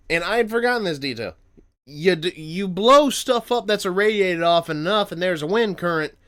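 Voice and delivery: talking through hiccups; interrupted by hiccups. Real, not acted. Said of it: "excuse me, I got hiccups".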